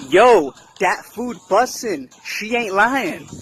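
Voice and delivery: toned-down pirate accent in a slangy Black American style; remixed pirate accent. Shown as a demonstration. Showing the pirate accent remixed to sound Black, a slow, lighter pirate accent. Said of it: "let's do it a little more remixed, culture appropriate".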